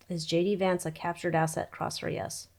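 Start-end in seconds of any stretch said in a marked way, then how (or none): 1.7-2.5 breathy hush; whispered. Real, not acted. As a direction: whisper to the pendulum. Whispered pendulum instruction.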